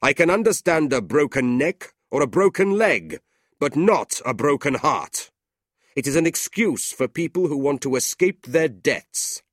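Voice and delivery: angry, loud stern uncle; Ralph. A narrator's reading. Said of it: "Ralph said angrily".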